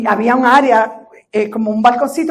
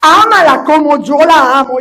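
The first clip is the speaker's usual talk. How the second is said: gentle reassurance; 3 semitones higher, 5 dB louder, slower than usual. Retold or imitated. Voicing the Spirit's gentle words.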